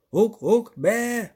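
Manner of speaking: high, loud goatish shriek. A narrator's reading. Goathorn shrieks while pelting them, high shriek. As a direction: shriek and bleat while jumping. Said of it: "верещав Козиріг".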